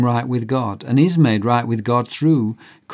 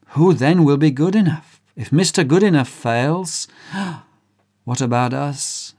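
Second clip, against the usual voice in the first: alarmed crowd; 4 semitones higher than usual. Acted.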